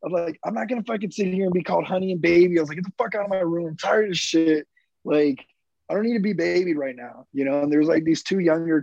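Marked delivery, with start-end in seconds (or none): 0.4-2.6 higher, fast angry rant; retold angry outburst. Marine telling the nurse he won't be babied, angry and fast. 2.8-7.3 higher, fed-up telling off; retold angry outburst. Marine ordering the nurse out of his room, angry.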